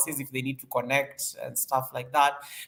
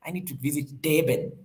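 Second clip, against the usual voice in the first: "Durban" as "Dayben" in a South African accent; playful South African accent, "Durban" said "Dayben". Shown as a demonstration. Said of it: "I need to say it with a South African accent so that it comes out nicely".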